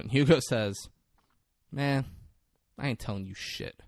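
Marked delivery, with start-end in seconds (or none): 1.7-3.8 understated calm. Retold or imitated. Hugo refuses to explain himself, understated calm. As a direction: refuse him with cool, unbothered calm. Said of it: "goes from shook to just so calm".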